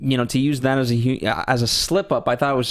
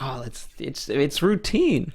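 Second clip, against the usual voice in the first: slow, drawn-out "routine"; mock smooth guy; slower than usual. Mocking a man's candle seduction routine, hammed-up. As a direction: play it like a practiced charmer. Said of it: "he's like".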